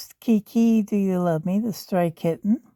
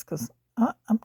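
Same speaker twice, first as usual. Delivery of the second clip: whisper; 4 semitones higher than usual. Real, not acted. Whispering aside.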